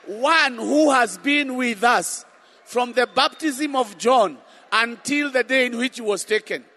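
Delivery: loud preaching proclamation; shouted scripture. Real, not acted. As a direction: proclaim it at full voice.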